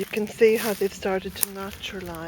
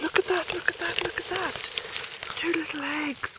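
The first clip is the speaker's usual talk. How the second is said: much higher, delighted repeating; excited; 8 semitones higher, 5 dB quieter than usual. Real, not acted. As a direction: gasp with joy at the find. Delighted at finding eggs.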